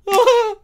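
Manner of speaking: sudden loud, high yelp; short high burst of noise; mock startled outburst. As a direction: imitate a shocked reaction. Imitates reaction to his threat.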